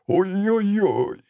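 slow, high pained oy-oy-oy; drawn-out high moan. Acted. Дед жалуется на боль в спине. (протяжное высокое «ой-ой-ой» от боли)

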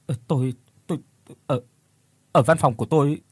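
halting, stuttered answer; stammering fright. Acted. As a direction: trip over words in fear. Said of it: "giọng nói run rẩy của Phước".

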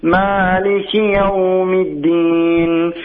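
slow, drawn-out recitation of al-Fatiha; Quran recitation. Real, not acted. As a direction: recite solemnly and slowly. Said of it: "أقرأ عليكم أم القرآن".

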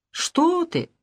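вскрикнуть гораздо выше; изумлённо отмахнуться; удивлённо. Acted. Анна изумлена вопросу Демьяна. (Анна удивлена предложению Демьяна)

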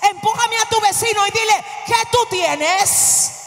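forceful, drawn-out preaching cry; fervent preaching. Real, not acted. Preacher challenges the congregation to reveal what they have, fervent. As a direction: call it out to the whole congregation.

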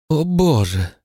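high, drawn-out slow wail; moaning woman. A narrator's reading. Mother to Walter, moaning in despair, drawn-out high wail. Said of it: "простонала она".

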